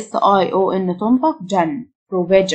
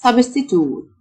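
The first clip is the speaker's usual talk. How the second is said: American "substitute", ending in a plain toot; American-style substitute, "-toot"; American pronunciation; 3 semitones higher, slower than usual. Shown as a demonstration. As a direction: say substitute the American way, no y-sound before the final oot. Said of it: "النطق الأمريكان".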